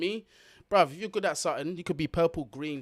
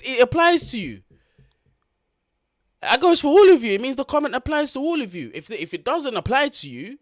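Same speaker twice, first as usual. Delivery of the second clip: louder and higher, calling out to Slicks; calling out loudly; 8 semitones higher, 11 dB louder than usual. Real, not acted. Telling off chat friend Slicks, loud and higher. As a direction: lay it down firm and loud to the mates. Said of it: "calling out friend Slicks".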